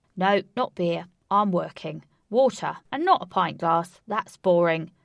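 put-on very loud, booming, cheeky, brash Cockney accent. Ajax turns down the pint of beer Trousers brings him: loud Cockney voice. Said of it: "talking loud Cockney and giving people playful nicknames. / He mingled around large crowds, talking loud Cockney and giving people playful nicknames. / said someone, / talking loud Cockney and giving p".

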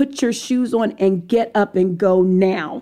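put-on firm, very forceful, urgent, no room to argue. Retelling a father's order in a dream: imitating a forceful command. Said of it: "And it was very forceful".

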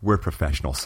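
put-on conspiratorial whisper. Retelling what a woman leaned in and said: imitating a conspiratorial whisper. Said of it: "leaned over and whispered to me".

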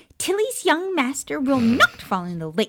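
very high, swooping, hard insistent tone. Narrator reads Tilly insisting to the Potters at dinner, insistent Tilly voice. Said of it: "Someone appeared, clearing away plates and levitating new dishes to the table, / Someone's young master will go to Hogwarts. Young master is the smartest wizard, brave and valiant. They let young master".

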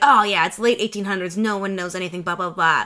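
ordinary delivery

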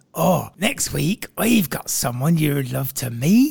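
put-on pirate voice with Russian accent. Acting out what someone at an old-time party says, Russian pirate accent. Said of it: "Was that your Russian pirate?".

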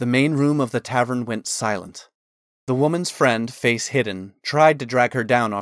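ordinary delivery

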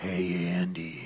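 very deep, soft, creepy scary-villain voice. Redoing the line after being told to do it deeper; deeper voice. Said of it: "you got to do it deeper".

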